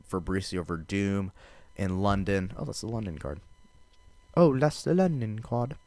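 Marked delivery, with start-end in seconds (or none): 4.4-5.8 a clumsy mock British accent, higher and a bit louder; terrible British accent. Fight podcaster mock-announcing the London card, in a bad British accent. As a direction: take a quick, bad stab at a London accent for "Oh, that's the London card". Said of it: "That was a terrible accent".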